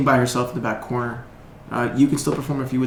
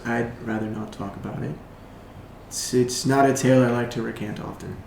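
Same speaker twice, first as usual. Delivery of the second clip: soft, subdued bard voice; quietly decline, with hesitations; reluctant bard; 6 dB quieter than usual. Acted. Bard avoids talk of lost friend, quietly reluctant.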